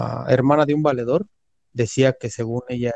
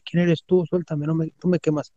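mock agitated protest, pitched up; hermano alocado imitado; 4 semitones higher than usual. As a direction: imitate a possessed man refusing a grip. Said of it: "se empezó a alocar otra vez". (protesta agitada imitada, en tono agudo)

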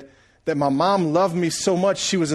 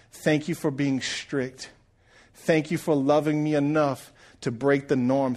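tearful thanks. Retold or imitated. Kneeling by mother's hospital bed.

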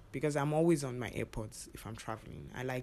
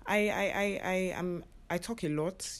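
imitating the man; 6 semitones higher, 3 dB louder than usual. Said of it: "And he says".

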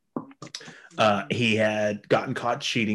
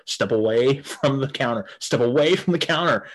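mock security guard; 3 semitones higher, 3 dB louder than usual. Security guards order him back.

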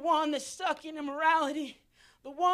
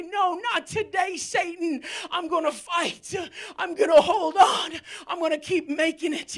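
defiant declaration; 3 dB louder than usual. Shown as a demonstration. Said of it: "begin to say".

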